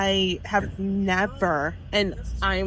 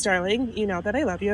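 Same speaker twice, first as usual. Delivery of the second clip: imitating the boss. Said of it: "this is exactly how he said it".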